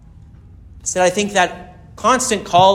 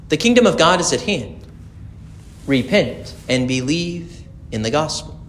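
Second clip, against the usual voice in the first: gospel reading; 4 dB quieter than usual. Acted. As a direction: proclaim it to the congregation.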